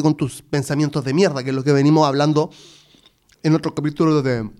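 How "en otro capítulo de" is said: talking with chocolate in mouth; mouth full. Real, not acted. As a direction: speak around a mouthful. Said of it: "perdón que estoy comiendo chocolatito".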